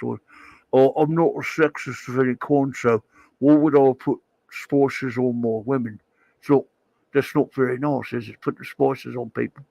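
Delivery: put-on a light English accent as an indignant Alan Moore; a rough English accent scolding a viewer; Alan Moore impression. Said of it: "Picasso has a question for Mister Moore".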